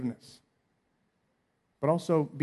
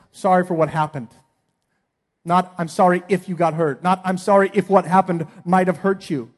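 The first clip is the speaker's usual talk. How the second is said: mock half-apology; 3 semitones higher, 5 dB louder than usual. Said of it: "not just".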